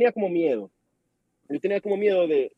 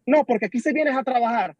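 higher-pitched mock boss yell; retold yelling; 5 semitones higher than usual. Boss scolding a worker for slacking, mock yell. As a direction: imitate a boss telling off a worker. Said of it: "por qué me grita".

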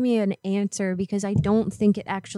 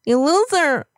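put-on tough-girl threat; 5 semitones higher than usual. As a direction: talk trash like a street fighter. Caller yells after him.

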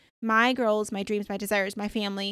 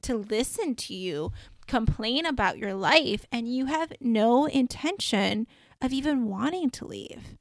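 retold annoyance, stressing word after word; annoyed reproach. Dreamer reproaching a woman who took her time, mildly annoyed. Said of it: "so annoyed in my dream".

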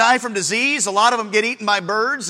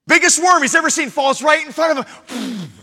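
the same line belted, louder and higher; preached shout; 4 semitones higher than usual. Shown as a demonstration. Preacher repeats the punchline to the church, shouting. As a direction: punch it out to the back pews. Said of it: "repeated louder".

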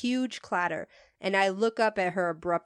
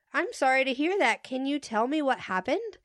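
concerned customer service voice; 5 semitones higher than usual. Retold or imitated. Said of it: "sincerely concerned".

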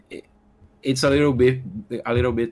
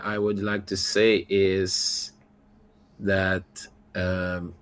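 trailing off; 3 semitones lower, slower than usual. Real, not acted. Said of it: "I forgot what I was going to say".

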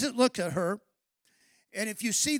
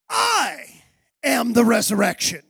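"I" hit hardest, falling proclamation; proclaimed; 5 dB louder than usual. Retold or imitated. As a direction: call out "I am the resurrection" as a declaration. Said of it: "he emphatically answers her".

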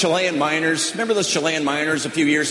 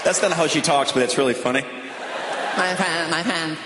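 put-on higher whiny teen wail; distraught daughter; 4 semitones higher, 4 dB quieter than usual. Daughter at the mall wailing that her friends aren't there. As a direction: wail it like a dramatic teenager. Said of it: "She's like".

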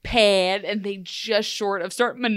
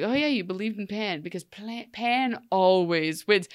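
stilted Pan imitation. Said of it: "emulate the way Pan spoke".

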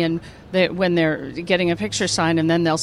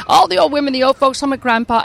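put-on old woman; 6 semitones higher than usual. Shown as a demonstration. Actress rattling off her characters, old woman voice. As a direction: play all the old folks' home ladies. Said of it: "thank you very much for doing the voices".

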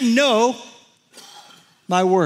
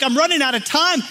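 raised, urgent self-talk; mock panic; 4 semitones higher than usual. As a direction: act mildly panicked as time runs out. Acting out his panicked self-talk.

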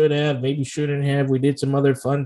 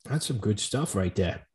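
put-on light Boston accent; a touch of Boston in it; 5 semitones lower, 8 dB quieter than usual. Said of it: "Is that your Boston accent?".

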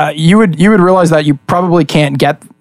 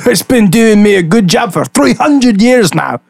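higher-pitched little creature voice; talking homunculus; 7 semitones higher than usual. Acted. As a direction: chat as a tiny, very old creature. Homunculus chats about its name.

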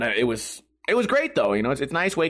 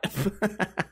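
burst of laughter; 4 semitones higher, 6 dB quieter than usual. Real, not acted. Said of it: "I can't even read this without laughing".

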